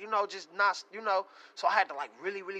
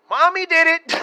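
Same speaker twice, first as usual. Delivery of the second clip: put-on high loud little kid voice; child voice; 11 semitones higher, 18 dB louder than usual. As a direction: blurt it like an excited toddler. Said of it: "he like, uh".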